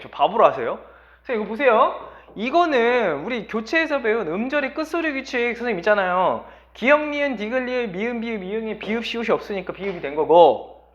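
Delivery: eager pupil rattling off the rule; objecting student. Acted. Student protesting to teacher that the rule is replacement, pestering know-it-all. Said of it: "여러분이 딱 선생님한테 할 수 있는 얘기가 뭐냐면".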